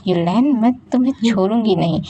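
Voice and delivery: fast, a touch of angry threat. Acted. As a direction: warn him you won't let it go. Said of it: "जब वो थोड़ा गुस्सा करते रहती है".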